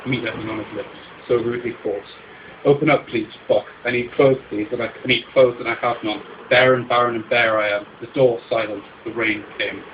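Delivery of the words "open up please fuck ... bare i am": loud pleading, raised and urgent; desperate loud plea. Acted. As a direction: shout your need through the door. Begging naked at door.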